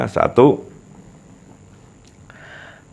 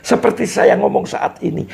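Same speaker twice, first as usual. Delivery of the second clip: much higher, sweeping melody; rhythm demo; 10 semitones higher than usual. Shown as a demonstration. Teacher showing a second rhythm, pitched high. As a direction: lift the whole phrase high then let it fall. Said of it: "Ini contoh, sudah contoh irama".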